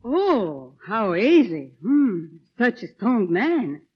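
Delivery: slow, teasing compliment; flirty teasing. Acted. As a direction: flatter him playfully.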